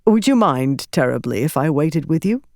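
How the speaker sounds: a light Herdazian lilt, courteous; polite request with a faint Herdazian accent; a hint of a Herdazian accent. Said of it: "He had a faint Herdazian accent".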